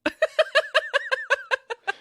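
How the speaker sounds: loud high laugh; high burst of laughter. Real, not acted. Laughing at being kicked out.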